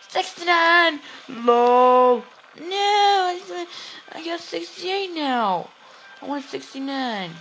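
loud squeal easing into a high whine; hammed-up high-pitched whining; high mock wail. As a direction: wail it high, playing up the upset. Wailing over the game score.

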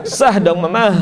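"Sah" and "Mama" closed with a heavy, forced h; exaggerated big ha. Shown as a demonstration. Mocking the wrong big ha, heavy h on "Sah". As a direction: overdo the breath ending "Sah" and "Mama". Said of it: "Nggak begitu, Pak".

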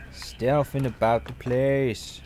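slow playful stealth whisper; sneaky whisper. Pretend. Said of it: "trying to be sneaky and scary".

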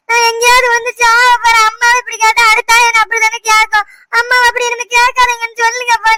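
tearful complaint. Acted. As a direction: complain through tears, slowing into a wail. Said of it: "சும்மா அழுதுகிட்டு இருக்காத". (அழுதுகொண்டே புலம்பும் குரல்)

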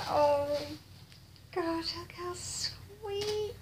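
very slow, high, melting coo; high hushed adoration; overcome. Real, not acted. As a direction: marvel tenderly, stretching each word. Overcome by a baby gift.

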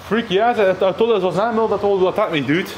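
high, fast, still rattled; shaken. Real, not acted. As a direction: babble out the scare. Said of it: "my heart was beat crazy".

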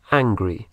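slow clear English angry; model pronunciation. Shown as a demonstration. Teacher models angry for Spanish learners, slowly. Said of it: "Y enfadado es angry".

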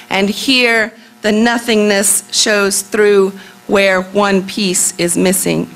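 deliberate, slow-paced verse recital; poem reading. Acted. Poet reading about a jigsaw puzzle, deliberate recital. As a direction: set out each phrase like a piece laid down. Reads her poem aloud.

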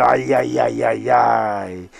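long slow ai-yai-yai cry; slow drawn-out dismay. Real, not acted. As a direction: wail it out slowly over the miss. Near miss, commentator cries out. (протяжное ай-яй-яй)

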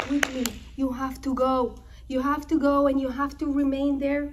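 quick, pressing instructions; urgent urging. Retold or imitated. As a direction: hurry them out, words running fast. Mother urges son to leave.

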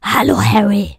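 breathless whispered greeting; whispered Hagrid take. Acted. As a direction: hush it like a secret. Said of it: "dann such dir mal was aus".

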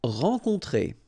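"Rencontrer" with two nasals, rahn-kohn-TRAY; "Rencontrer" said the French way; French word. Shown as a demonstration. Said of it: "E N, en, O N, on".

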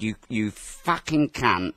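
slow, deliberate "You, you fucking cunt"; drawn-out insult. Retold or imitated. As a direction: spell out each word of "You, you fucking cunt" slowly. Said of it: "I said like that".

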